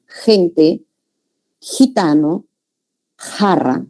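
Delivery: gente, gitano, jarra with a velar fricative at the start; velar J sound. Shown as a demonstration. Teacher gives examples of X sound, gente, gitano, jarra with velar J. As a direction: begin "gente", "gitano", "jarra" at the back of the mouth. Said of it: "la J y a la G españolas".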